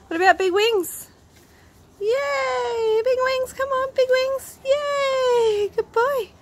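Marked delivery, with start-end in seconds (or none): 2.0-6.3 high, cheery praise; excited praise. Real, not acted. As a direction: cheer the dog on. Cheering the dog on.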